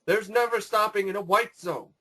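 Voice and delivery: arguing over the loudspeaker; airport announcement. Retold or imitated. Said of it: "starts talking like".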